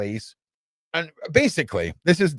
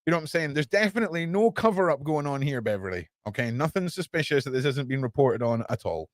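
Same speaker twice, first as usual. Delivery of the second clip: sarcastic cover-up voice; 3 semitones higher than usual. Acted. Sarcastic mock news denial.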